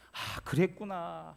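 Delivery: slow understanding sigh; gentle sympathy. Retold or imitated. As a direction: draw it out kindly, like comforting someone. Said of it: "하는 그 소리".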